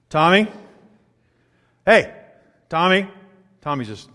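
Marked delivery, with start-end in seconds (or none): 0.1-0.5 put-on parent calling child. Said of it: "I love it when they say". 1.8-3.1 put-on parent calling child. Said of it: "I love it when they say".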